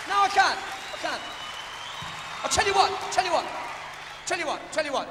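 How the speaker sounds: loud, high flustered protest; embarrassed shout. Real, not acted. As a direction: shout over the laughing crowd. Embarrassed by old song, shouting.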